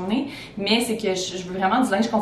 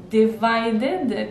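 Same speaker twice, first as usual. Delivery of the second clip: put-on English accent. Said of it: "je prends ton accent anglais".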